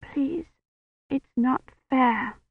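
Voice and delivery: high, soft, breaking plea; a desperate little prayer; pleading. A narrator's reading. Kivrin begs God to spare Roche, high and near tears.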